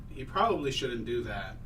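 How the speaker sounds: a creeping vine savoring its prey; slow hissing strangling vine. Acted. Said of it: "You hear the plant say to you".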